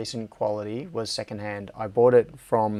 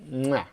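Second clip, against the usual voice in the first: chef's kiss. Pretend. Mimes a chef's kiss of approval.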